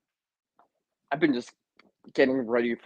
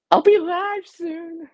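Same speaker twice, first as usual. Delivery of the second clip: drawn-out announcement voice; 6 dB louder, much slower than usual. Pretend. Reads out his notification.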